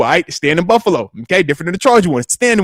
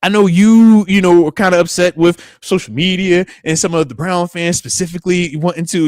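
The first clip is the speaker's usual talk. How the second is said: wife's sit-down; 4 semitones higher, 4 dB louder than usual. Retold or imitated. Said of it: "wifey had this, she had a nice sit down".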